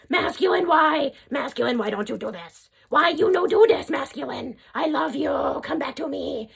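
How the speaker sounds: imitating a clingy partner with a high cry of "why?"; hammed-up begging him to come back; mock whiny pleading. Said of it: "I was like".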